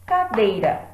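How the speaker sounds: cadeira said with loud clapped beats on each syllable. Shown as a demonstration. Teacher showing students the three beats of cadeira. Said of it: "Reparem que eu pronuncio o K, o dei e o rá".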